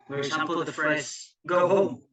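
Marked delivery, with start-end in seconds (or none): 1.5-2.0 two strong beats on "Go home"; spondee stress. Shown as a demonstration. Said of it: "consisting of two stressed syllables".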